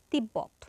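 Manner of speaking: তিব্বত said "tib-bot", falling; b sounded twice. Shown as a demonstration. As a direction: hold the double b in তিব্বত. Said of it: "দুইবার উচ্চারিত হলো".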